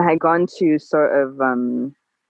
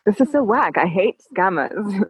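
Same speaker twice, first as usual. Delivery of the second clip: retold frustration; 4 semitones higher than usual. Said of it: "a frustrated moment of like".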